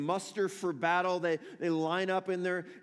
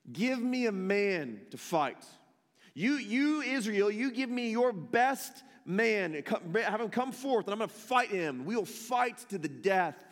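mild mock challenge; 2 semitones higher than usual. Preacher voicing Goliath's challenge to Israel, lightly raised. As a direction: call across the valley, half-acted. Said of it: "he cries out".

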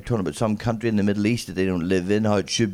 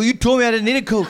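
high, louder mock complaint at a friend; hammed-up outrage; mock accusation; 13 semitones higher, 5 dB louder than usual. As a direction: blame the friend, half laughing. Accusing friend after going out.

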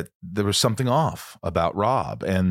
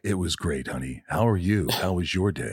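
DJ voice at home; 4 semitones lower than usual. Retold or imitated. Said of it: "how they are at home".

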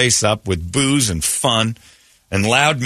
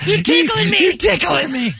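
being tickled. Pretend. Kid being picked up.

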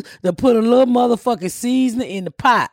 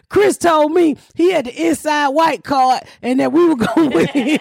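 raised, shouted accusation; mock yell; 5 semitones higher than usual. Retelling yelling at husband over election. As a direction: shout it like a betrayed wife.

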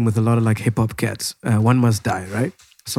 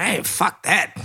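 laughing; 5 semitones higher, 4 dB quieter, slower than usual. Retold or imitated. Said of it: "I was like".

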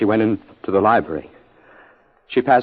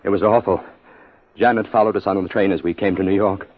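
usual speaking voice

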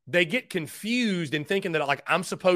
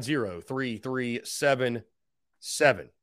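slow repeat of number; 5 semitones lower, 3 dB quieter, slower than usual. Shown as a demonstration.

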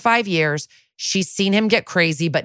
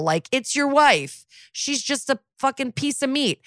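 mocking idiot cop; 9 semitones higher than usual. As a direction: drag it out, pitched up, mocking the idiot. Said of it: "these fucking idiots are still like".

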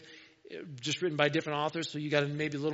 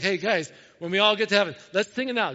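eager rallying; 2 semitones higher, 7 dB louder than usual. Retold or imitated. Imagined disciples rally one another to sing.

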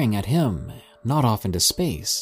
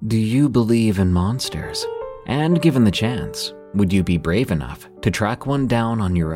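ad read. Acted. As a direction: sell it like a podcast ad. Narrator reads sponsor ad.

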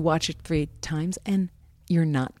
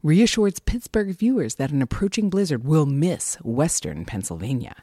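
movie announcer voice. Shown as a demonstration. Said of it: "I'm gonna do the movie announcer voice".

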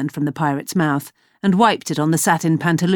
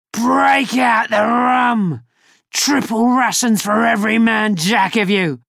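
roaring growl; 5 semitones higher than usual. Acted. Shapeshifter mimicking Hook to the crew, slow roaring shout. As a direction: roar the order to the crew. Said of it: "roaring growl".

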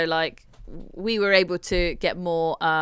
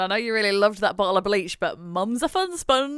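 mock grandma voice. Mock voicing mum to baby.

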